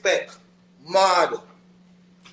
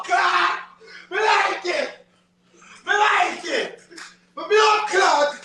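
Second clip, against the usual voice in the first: hype call to chat; 3 semitones higher than usual. Real, not acted. Hyping chat to comment.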